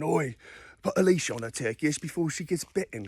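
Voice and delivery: lightly put-on British lad accent; rough British bloke. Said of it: "rock and roller Brits".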